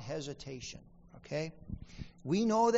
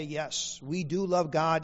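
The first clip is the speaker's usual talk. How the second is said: louder, firm "we DO love God"; emphatic yes; 2 semitones lower, 4 dB louder, slower than usual. Retold or imitated. Congregation's answer voiced by pastor, emphatic and firm. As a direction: insist on it, leaning on "do".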